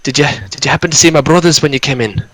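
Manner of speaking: put-on overwhelmed dwarf in a northern Scottish accent; northern Scottish accent, asking about his brothers. GM voices Gundren asking the party about his brothers in a northern Scottish accent. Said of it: "his northern Scottish accent".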